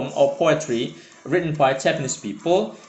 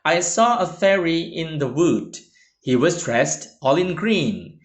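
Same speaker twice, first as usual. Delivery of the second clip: reads the verse aloud at an even pace; recited poem; poem reading. Shown as a demonstration. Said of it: "I will read, uh, an example".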